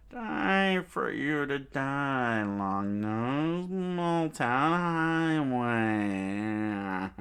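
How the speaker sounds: slow gloating attack cry; villain attack call. Acted. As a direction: drawl out the attack name.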